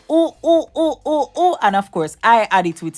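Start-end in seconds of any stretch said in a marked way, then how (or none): 0.1-1.5 high, excited little oohs; delighted oohs. Real, not acted. Cook admires the steaming pot, high delighted oohs.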